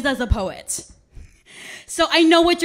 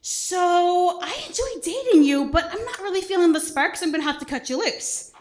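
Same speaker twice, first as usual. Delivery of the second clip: lightly voiced date; 4 semitones higher than usual. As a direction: gently let someone go. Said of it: "she's like".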